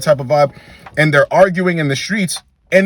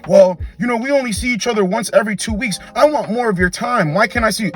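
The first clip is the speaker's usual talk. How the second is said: mock whiny girlfriend; 5 semitones higher than usual. Woman demanding more time.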